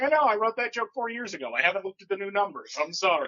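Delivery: mock exasperated excuse; exasperated apology. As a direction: defend yourself to the pedant.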